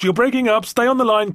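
fake bad-signal act. A narrator's reading. Faking a bad radio connection.

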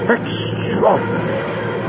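slow, whispered awe; hushed, drawn-out astonishment; breathed amazement. A narrator's reading. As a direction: breathe it out in wonder. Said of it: "breathed Lightfoot".

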